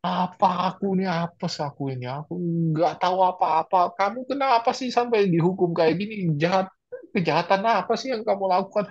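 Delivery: lightly acted nagging complaint; understated irritated muttering; grumbling at Jesus. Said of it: "sepanjang jalan ngomel".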